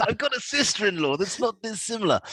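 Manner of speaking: lightly voiced royal muttering under his breath; a sly royal aside, half-hidden; mock Charlie aside. Charlie murmuring to family about a new knight, lightly voiced royal aside. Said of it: "you've got Charlie going".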